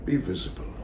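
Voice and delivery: hushed theatrical entreaty; begging. Acted. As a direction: plead quietly with unseen listeners. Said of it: "He's begging".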